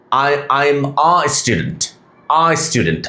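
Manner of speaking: slow, with "a" said as an open "uh/ah"; article as AA. Shown as a demonstration. Teacher showing learners the article sound, "a" said as "ah". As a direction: say "a" as আ, never "ay". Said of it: "article হিসেবে বসলে আ".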